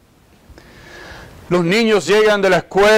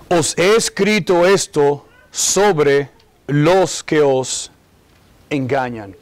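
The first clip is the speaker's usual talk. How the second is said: slow, measured scripture reading, lower at phrase ends; lectura bíblica; 7 semitones lower, slower than usual. Acted. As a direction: read the verse out slowly, phrase by phrase. Reads the scripture verse aloud. (lectura pausada de la Biblia)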